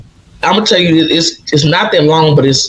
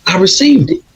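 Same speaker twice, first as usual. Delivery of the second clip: elated; 9 semitones higher than usual. Real, not acted. Elated after finding feather.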